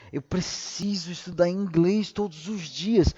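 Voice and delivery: "Eu preciso estudar inglês todos os dias" with firm, insistent tune rising at the end; forceful intonation. Shown as a demonstration. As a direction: say it like a firm obligation. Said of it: "Mas se eu digo assim". (entonação firme de obrigação)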